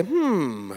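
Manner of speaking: low, drawn-out falling "hmm"; pondering hum. Shown as a demonstration. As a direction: hum a long, knowing "hmm" that sinks. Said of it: "turn to your neighbor and just say".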